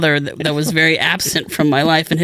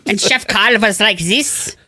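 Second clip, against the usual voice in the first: chef voice; 5 semitones higher, slower than usual. Retold or imitated. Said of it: "if a five hundred pound guy had that voice".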